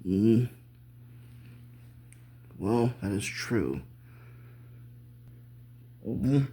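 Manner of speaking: chewing while humming; mouth full. Acted. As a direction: hum through a mouthful. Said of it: "don't talk with your mouth full".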